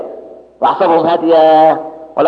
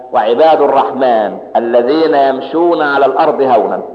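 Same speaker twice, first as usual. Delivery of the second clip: quran recitation; 6 semitones lower, slower than usual. Acted.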